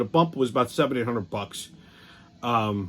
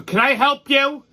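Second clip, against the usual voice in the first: high voice; 10 semitones higher, 4 dB louder than usual. Retold or imitated. Woman's voice calls from behind.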